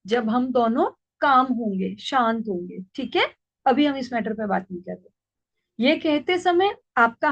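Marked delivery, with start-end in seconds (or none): 0.1-5.1 lovingly. Shown as a demonstration. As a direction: settle the child gently. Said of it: "उसको प्यार से कहिए कि". (प्यार से, धीमी और नरम आवाज़ में)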